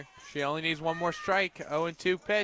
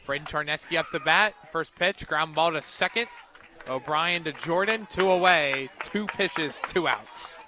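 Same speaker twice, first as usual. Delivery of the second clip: lively play-by-play; 2 semitones higher, 6 dB louder than usual. Real, not acted. Live play call.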